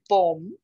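"bomb" said "bom", the b left silent. Shown as a demonstration. Teacher models "bomb" with a silent b. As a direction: end "bomb" on the m, no b. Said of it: "não se fala o B".

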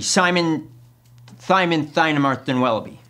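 "Simon Thynemarston" with s turned to th; put-on lisp. Applicant faking a speech impediment to get hired, lisping. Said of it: "minor yet annoying speech impediments".

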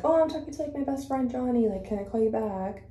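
high, breezy innocent excuse; fake casual excuse. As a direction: sound innocently busy. Planned fake excuse text to mom.

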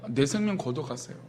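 sarcastic plea. Retold or imitated. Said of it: "하나님의 성품을 비아냥거리고 있는 것이죠".

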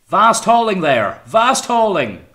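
piercing, urgent high shout; excited high treble. A narrator's reading. Young voice cutting through the captain's orders, urgent treble shout. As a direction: cry out slowly, soaring to a treble. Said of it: "soaring with excitement to a high treble".

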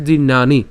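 জির্ণানি sounded out carefully; careful pronunciation. Shown as a demonstration. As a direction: model জির্ণানি clearly for learners. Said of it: "একটু মনে রাখবেন". (জির্ণানি স্পষ্ট উচ্চারণে)

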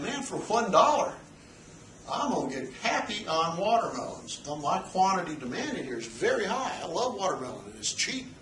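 lightly voiced buyer thrilled at cheap watermelons; teacher voicing a happy buyer at one dollar; eager buyer. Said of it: "But buyers are saying".

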